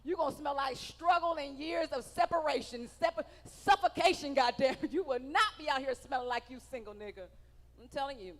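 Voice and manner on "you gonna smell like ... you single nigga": lightly voiced scolding mother, emphatic; mama's scolding. Mama telling her husband off about his cologne, mild scolding. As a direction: lay down the law like a mama. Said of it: "My mama said".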